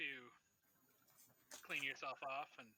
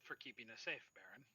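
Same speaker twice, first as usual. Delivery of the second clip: almost a whisper; 2 semitones lower, 7 dB quieter than usual. Acted. Woman thanking the Baron for keeping them safe, almost whispered. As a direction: voice it gently, dropping off at the end. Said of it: "says in almost a whisper".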